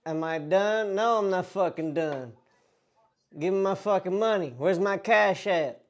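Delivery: indignant mock country bumpkin; country bumpkin accent. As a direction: refuse to back off in a put-on country accent. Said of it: "The, the country bumpkin".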